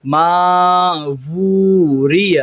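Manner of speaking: ماوری said as maw-ree, vowel off; wrong reading. Shown as a demonstration. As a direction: say ماوری the mistaken way. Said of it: "ماوری غلط ہے". (ماوری غلط تلفظ)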